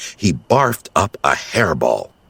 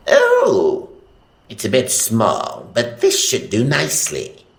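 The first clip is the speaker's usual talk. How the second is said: delighted; 5 semitones higher than usual. Acted. Gargamel delighted.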